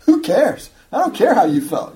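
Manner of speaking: emphatic imitation of a preacher's accent; punchy, humorous accent impression; Alistair Begg's accent. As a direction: dismiss it in a put-on preacher's accent. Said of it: "he says in his characteristic accent".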